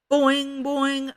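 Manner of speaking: high, ringing springy chant; teasing call. A narrator's reading. Children join the yelling game.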